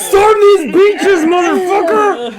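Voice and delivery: battle cry. Acted. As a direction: storm the beach like a soldier. Mock war cry about beer.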